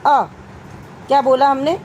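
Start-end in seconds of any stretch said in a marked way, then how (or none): 0.1-0.2 अ clipped off in one quick jolt; short, jerky vowel. Shown as a demonstration. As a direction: say अ short and sharp, with no hold at all. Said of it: "हमने बोल दिया झटके से".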